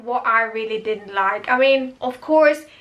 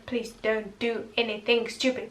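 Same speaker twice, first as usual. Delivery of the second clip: pleading aside; 7 dB quieter than usual. Real, not acted. Her own plea to the character.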